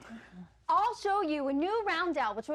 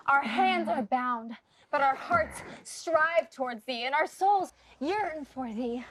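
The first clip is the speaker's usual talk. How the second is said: mock prayer; 2 semitones lower than usual. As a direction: pray to the dollar in hammed-up reverence.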